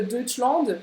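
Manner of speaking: Deutschland said deu-shland with a nasal French ending; wrong French Deutschland. Shown as a demonstration. Teacher mocking the wrong French Deutschland. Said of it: "das kannst du vergessen".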